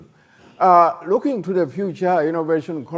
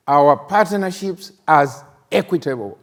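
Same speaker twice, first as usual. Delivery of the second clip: equitable given extra weight, said firmly to close the line; stress on equitable. Shown as a demonstration. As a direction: lean on "equitable" so it lands as the key word. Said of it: "I emphasize the word equitable".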